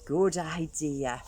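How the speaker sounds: slow, drawn-out big skeleton; lazy, slow agreement. Acted. Big skeleton answering little one, slow and easy.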